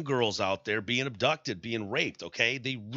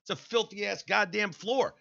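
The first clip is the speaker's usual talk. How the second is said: higher, incredulous scolding; mock disgusted juror; 8 semitones higher than usual. Host imagining a juror scolding the barefoot defendant, incredulous.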